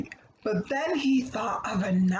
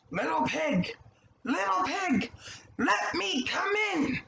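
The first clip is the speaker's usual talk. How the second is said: coaxing wolf; 7 semitones higher than usual. Acted. Wolf coaxes the pig.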